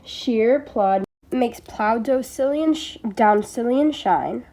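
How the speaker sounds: slow, word by word, leaning on "Sheer" and "shine"; teacher spelling out the sounds slowly; sounding out the line. Shown as a demonstration. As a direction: pick apart each sound of "Sheer plod makes plow down Scillian shine" slowly. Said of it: "S and sh appear four times".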